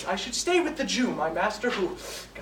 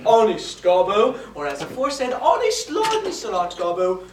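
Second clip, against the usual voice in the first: insistent conscience; 3 semitones lower, 6 dB louder, slower than usual. Acted. Conscience warning honest Gobbo against running, insistent. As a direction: burst out as conscience, then drop lower to caution. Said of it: "My conscience says".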